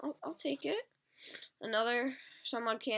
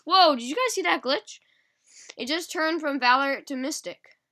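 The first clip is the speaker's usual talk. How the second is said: surprised; 5 semitones higher, 8 dB louder than usual. Real, not acted. Sudden glitch on screen.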